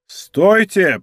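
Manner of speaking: a firm order; commanding. Acted. Monk ordering d'Artagnan to halt, commanding. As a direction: stop him with authority. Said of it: "повелительно сказал Монк".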